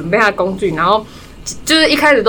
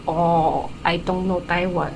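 imitating with a laugh; 4 semitones lower, 8 dB quieter, much slower than usual. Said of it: "她就说".

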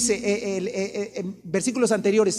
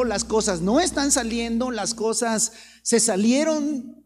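usual speaking voice

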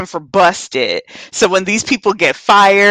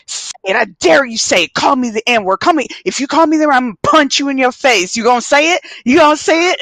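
daring threat; 5 semitones higher, much faster than usual. Retold or imitated. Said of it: "she was like".

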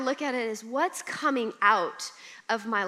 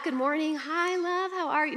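lightly raised, sweet good-morning voice; sweet greeting; 5 semitones higher than usual. Pretend. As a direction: chirp a cheerful hello to her husband. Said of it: "And not".

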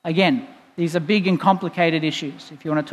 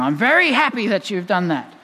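mock scolding. Father to his children, mock scolding. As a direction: pretend telling-off, stress on "very". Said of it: "scolding him, as I often do".

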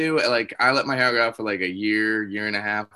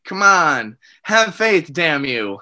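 mock pleading; 2 semitones higher, 4 dB louder, much slower than usual. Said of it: "And I'm like".

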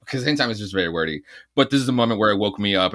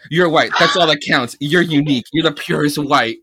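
ranting villain; 4 semitones higher, 5 dB louder than usual. Retold or imitated. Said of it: "and he goes".

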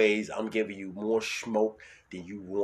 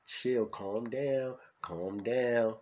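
soothing; 4 semitones higher, much slower than usual. Acted. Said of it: "calming the listener".

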